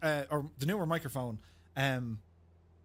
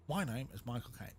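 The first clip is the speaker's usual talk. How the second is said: lower, softer Cockney Michael Caine; 4 semitones lower, 5 dB quieter than usual. Retold or imitated. Streamer introducing himself as Michael Caine, Cockney. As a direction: say your name like Michael Caine, lower and quiet.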